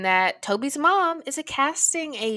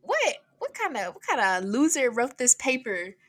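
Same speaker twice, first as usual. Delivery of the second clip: mock outraged teacher; 2 semitones higher than usual. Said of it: "off screen, we hear".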